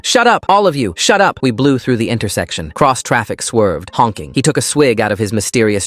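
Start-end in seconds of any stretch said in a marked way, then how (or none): 0.0-1.4 high-pitched furious outburst; angry yell. A narrator's reading. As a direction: snap at a bus full of kids, voice leaping up. Driver yelling at the children.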